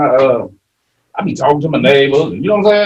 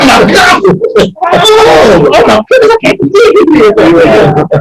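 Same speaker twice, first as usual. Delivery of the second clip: mock dismay; 14 semitones higher, 6 dB louder, much slower than usual. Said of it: "they be like".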